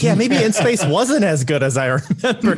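a light, laughing impression of a swayed fan; mock doubtful listener. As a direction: imitate a fan talked out of their memory. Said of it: "They're just like".

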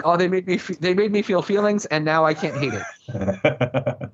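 a hammed-up fan admitting defeat; mock gushing self. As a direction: play up being swept away by feelings. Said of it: "Because I'm like".

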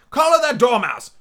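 high, loud shriek; shrieking queen. Acted. Queen shrieks at the court, high and loud. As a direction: shriek the order. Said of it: "shrieked the, uh".

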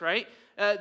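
usual speaking voice

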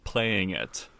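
slow, emphatic spelling-out; real simple explanation. Pretend. Trainer clarifying the obvious for everyone, slow and emphatic. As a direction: lean slowly on the word actually. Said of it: "make this real simple for everyone".

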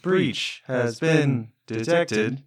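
slow PA announcement; calm loudspeaker warning; through a megaphone. Pretend. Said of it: "announcement sounds over the public loudspeaker".

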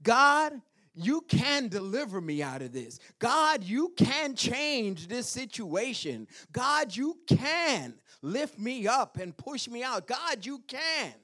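high, loud prayer of faith; bold declaration. Acted. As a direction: cry out to God with conviction. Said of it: "Can you make that kind of declaration?".

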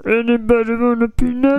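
Kermit voice. Retold or imitated. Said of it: "That was Kermit".

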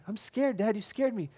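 high-pitched mock tearful daughter; imitated crying child. Daughter crying to her dad, scared. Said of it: "She's like, crying".

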